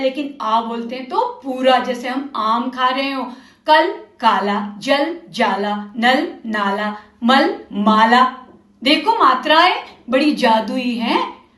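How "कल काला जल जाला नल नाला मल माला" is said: कल short अ, काला long open आ; vowel contrast demo. Shown as a demonstration. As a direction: open the mouth wide on the आ in काला. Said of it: "जब हम अ बोलते हैं".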